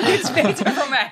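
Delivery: high, laughing voice. Real, not acted. Guest admitting to fellow guests it was egoistic, laughing.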